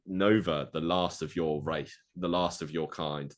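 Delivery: slow, drawn-out gloating villain; a hint of a slow menacing warlord; villain taunt. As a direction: savour each word like a warlord toying with prey. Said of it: "and then he goes".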